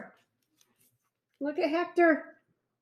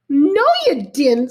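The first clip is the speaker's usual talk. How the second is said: snapped; 6 dB louder than usual. Acted. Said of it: "snapped Sam".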